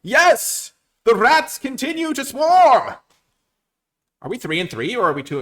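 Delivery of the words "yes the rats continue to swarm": high, loud, slow victory roar; triumphant shout. Real, not acted. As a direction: proclaim the rats' triumph grandly. Winning streak, gloating.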